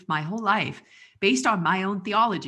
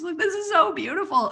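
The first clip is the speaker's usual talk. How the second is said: moved; 11 semitones higher than usual. Real, not acted. Moved by the book.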